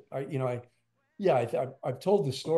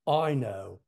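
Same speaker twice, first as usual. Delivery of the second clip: brief Liverpudlian imitation; Liverpudlian accent; 4 dB louder than usual. A famous drummer consoling a starstruck drummer in a hug, Liverpudlian accent. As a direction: lightly imitate a knowing Liverpudlian reply. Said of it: "whispered right in my ear and he said with the perfect Liverpudlian accent".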